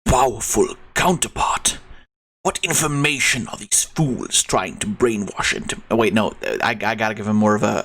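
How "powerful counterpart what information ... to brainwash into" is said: dark whisper behind you. Acted. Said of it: "more of a Shadow voice".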